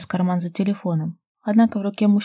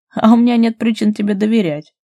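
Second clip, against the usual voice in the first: louder mocking reply; smirking; 4 semitones higher, 9 dB louder than usual. A narrator's reading. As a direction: scoff at his promise. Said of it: "усмехнулся Булыгин". (с усмешкой)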